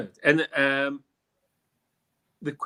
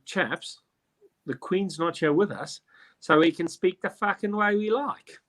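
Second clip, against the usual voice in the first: hammed-up Australian that slips into English, rising higher at the end; bad Australian accent; 5 semitones higher than usual. Convicts landing in Australia defy the Queen, in a bad Australian accent. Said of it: "that was a bad Australian accent".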